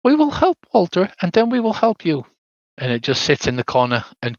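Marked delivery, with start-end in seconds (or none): 0.0-2.2 put-on high childlike ghost promise; little girl Rose. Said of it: "And she says".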